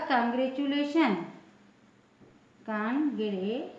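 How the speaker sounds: "कांग्रेचुलेशन" with chu in the middle, then broken into syllables; "कांग्रेचुलेशन" modelled with a clear ch. Shown as a demonstration. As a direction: say "कांग्रेचुलेशन" for learners, kan-gre-chu-le-shan. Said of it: "इसमें भी pronunciation क्या होगा".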